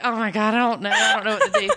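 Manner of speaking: put-on panicked kid. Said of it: "the kid's just like".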